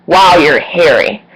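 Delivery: "Wow, you're hairy" drawn out slowly, with a mild judgmental tone; slow mocking quote. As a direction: lean on "Wow", slow and unimpressed. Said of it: "I have her saying".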